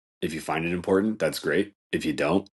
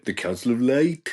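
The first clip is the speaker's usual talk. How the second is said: mock mystic title; 5 semitones higher, 4 dB louder than usual. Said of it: "mocking her title".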